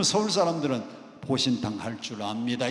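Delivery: measured, polite Seoul answer; Seoul standard speech. Shown as a demonstration. Preacher models how Seoul people answer, in plain standard Seoul speech. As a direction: answer in a full, careful Seoul sentence. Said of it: "이렇게 대답해야 되는데".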